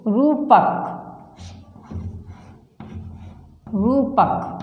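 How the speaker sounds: रूपक with रू pushed; stressed long u. Shown as a demonstration. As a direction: hit the रू of रूपक. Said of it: "जोर लगाकर बोलते हैं". (रूपक में रू पर जोर)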